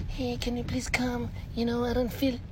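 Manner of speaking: imitated pleading. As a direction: plead in a put-on high voice. Acts out a caller's plea.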